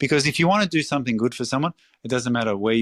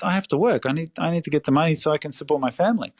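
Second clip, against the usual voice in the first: lightly acted worker's plea, pitched up; mild imitation of an insistent breadwinner; pleading immigrant worker; 5 semitones higher, faster than usual. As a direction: plead the need to work, higher than usual. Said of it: "they would go".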